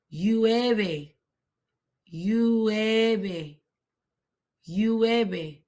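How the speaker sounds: "Llueve" starting with a Y, "yweh-beh"; stretched model of "Llueve" with double L as Y; Y sound. Shown as a demonstration. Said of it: "The double L has a Y sound".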